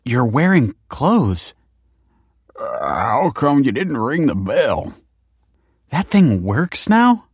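high, drawn-out disbelief; astonished. A narrator's reading. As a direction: stretch the words in amazement. Astonished reunion at the door.

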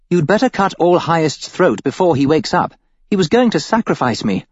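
a cunning captive turning the knife on him; a bound cultist woman urging her captor, slyly; Iris, scheming. Acted. Female character voice in narration.

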